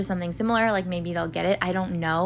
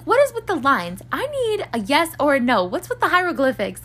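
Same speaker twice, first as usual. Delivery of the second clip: excited friend; 7 semitones higher than usual. Retold or imitated. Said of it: "she's, like, freaking out".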